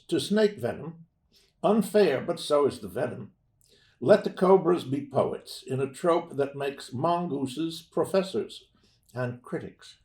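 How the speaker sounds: measured recital with emphatic peaks; poem reading. Acted. Poet reads a quirky snake and mongoose poem to an audience, measured recital. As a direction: read verse in deliberate phrases, pausing between them.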